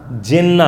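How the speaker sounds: "جنہ" said as "jinna"; short i opening "جنہ"; zer on jim. Shown as a demonstration. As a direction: say "جنہ" as "JIN-na". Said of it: "تینوں کے ساتھ".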